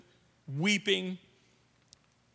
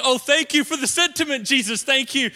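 sarcastic thanks; 4 semitones higher, 4 dB louder than usual. Retold or imitated. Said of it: "this is Martha's way of saying".

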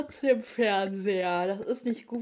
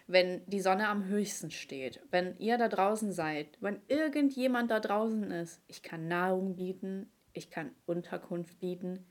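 earnest lone survivor radio call; dramatic movie quote. Acted. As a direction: read it like a desperate broadcast. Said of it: "Junge, heftige Schauspielerin".

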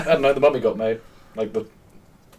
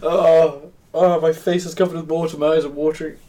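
laughing to tears; 5 semitones higher than usual. Real, not acted. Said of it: "It's called crying".

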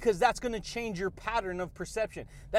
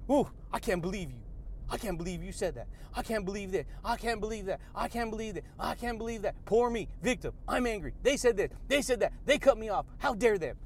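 softer, sulky mock victim voice, repeating itself; offended ego; 4 dB quieter than usual. The ego sulking over being cut off, soft mock-victim whine. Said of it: "Whew, and it gets".

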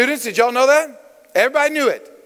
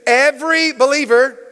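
said with a little more conviction; 3 semitones higher than usual. Shown as a demonstration. Preacher leading congregation in repeating it, with more conviction. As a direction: drive it home firmly for the congregation to repeat. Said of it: "Let's say it again with a little more conviction".

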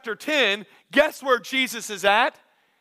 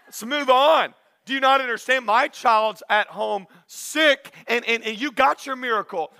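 lightly voiced fed-up father, pitched up slightly; impatient dad. Waiting dad to the healed woman, mildly exasperated. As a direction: hurry her along like a waiting dad. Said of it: "the dad is sitting there going".

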